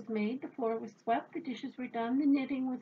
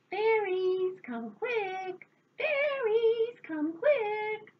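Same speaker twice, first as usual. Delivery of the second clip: loud, high, urgent holler; shouted summons; 11 semitones higher, 5 dB louder, much slower than usual. A narrator's reading. Old woman calling the fairies outside, high urgent shout. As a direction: holler to bring everyone running. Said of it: "Stand outside your door and shout".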